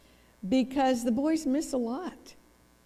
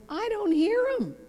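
husband's blunt reply; 11 semitones higher than usual. Retold or imitated. Husband finally answers counselor.

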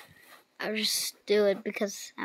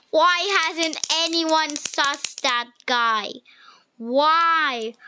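exasperated; 4 semitones higher, 4 dB louder, much slower than usual. Real, not acted. Exasperated repeated complaint.

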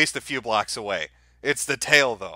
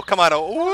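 howling like a wolf pup; 4 semitones higher than usual. Real, not acted. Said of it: "can I get an awoo from you".

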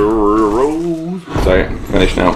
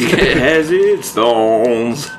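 very slow, drawn-out mock-grave intoning through a laugh; milk the game's motto like a doom-laden narrator; a hint of a portentous voiceover; mock solemn; much slower than usual. Finishing the motto in mock gravity.

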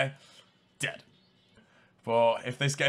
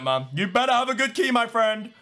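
normal talking voice

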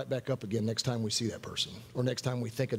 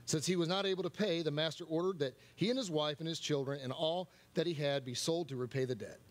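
softer, measured reading aloud; scripture reading; 5 dB quieter than usual. Real, not acted. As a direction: read the Bible passage out, more quietly.

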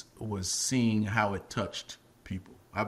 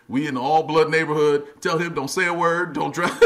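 urgent warning; 4 semitones higher, 8 dB louder than usual. Retold or imitated. Acts out urgent warning leaving set.

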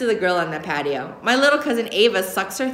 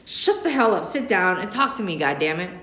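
hissed through teeth. Acted. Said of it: "hisses through gritted teeth".

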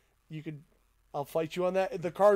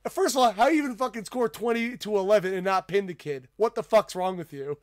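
exasperated coach; 3 semitones higher, 5 dB louder than usual. Retold or imitated. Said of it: "He goes".

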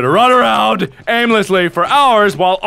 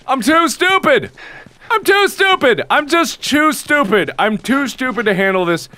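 whiny self-reproach; 2 semitones higher than usual. Pretend. Player unable to find the way, whiny wail. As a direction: whine it in hammed-up despair.

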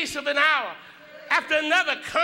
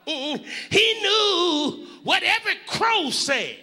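sung-out, rising preacher's cadence over the organ; fervent preaching climax with musical intonation; whooping preacher. Acted.

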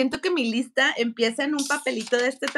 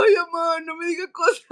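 laughing whine; 3 semitones higher than usual. Retold or imitated. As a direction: giggle it at mom. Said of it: "Y yo". (a su mamá, riendo y quejándose)

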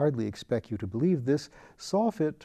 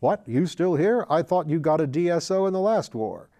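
put-on a louder, higher bluff old colonel's jab; blustering colonel; 4 semitones higher, 4 dB louder than usual. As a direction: boom it out like a hearty old soldier. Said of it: "Colonel Simpkins said to him".

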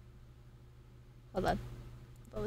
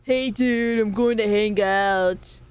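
slow, laid-back SoCal surfer voice; surfer dude accent; much slower than usual. Retold or imitated. Streamer mocking her own California talk, slow surfer accent. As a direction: stretch it out like a beach dude. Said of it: "I do talk, talk like that".

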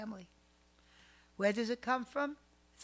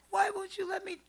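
pleading question; 11 semitones higher, 5 dB louder than usual. Retold or imitated. Doctor's wife pleads.

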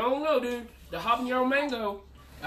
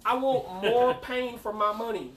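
mock indignant; 3 semitones higher, 4 dB louder than usual. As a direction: play up the indignation. Mock complaint about price.

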